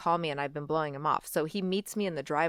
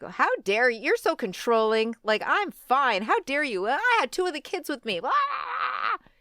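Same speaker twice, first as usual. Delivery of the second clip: indignant; 4 semitones higher than usual. Retold or imitated. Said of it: "So I'm like".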